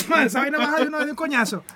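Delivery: laughing while talking. Real, not acted. Friend riffing on gravity between laughs, laughing loudly. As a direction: push the words out loudly through real laughter. Still cracking up at the joke.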